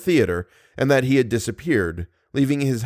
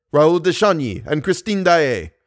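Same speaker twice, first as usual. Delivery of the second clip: insistent; 3 semitones higher than usual. Acted. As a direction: hammer the names home. Persian repeats insistently.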